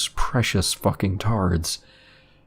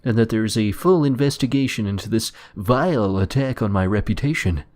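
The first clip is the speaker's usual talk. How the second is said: pompous principal; 3 semitones higher than usual. Retold or imitated. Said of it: "he opened with".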